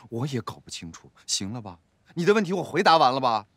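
fed-up, mostly low-voiced grumbling; weary, irritated retort; impatient. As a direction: answer as if sick of the questions. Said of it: "你咋这么不耐烦".

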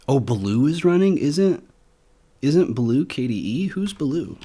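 genuinely thrown by what he sees; puzzled surprise. Real, not acted. Reviewer spotting a KDE indexer on GNOME, baffled.

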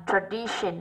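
"tradition" slowly, stressed on "di"; second-syllable stress. Shown as a demonstration. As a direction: lean on the middle of "tradition". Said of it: "âm hai".

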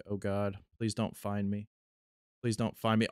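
hushed, scared hiding whisper; whispering while hiding. Retold or imitated. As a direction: breathe the words so the ghost won't hear. Pretend hiding from the ghost.

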